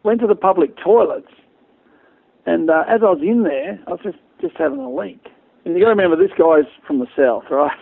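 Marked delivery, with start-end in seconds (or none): 0.0-5.3 lightly put-on Southern American accent, higher; half-hearted American accent telling a bar story. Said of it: "I can't do the American accent".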